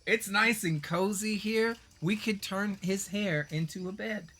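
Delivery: high, slow, self-pleased grasshopper voice; cosy little grasshopper king. Acted. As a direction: settle in luxuriously, drawing out each phrase up high. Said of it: "and he's like".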